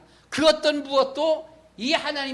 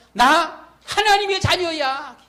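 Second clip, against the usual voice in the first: joyful proclamation; 6 semitones higher, 6 dB louder, slower than usual. Retold or imitated. Proud declaration of being God's child.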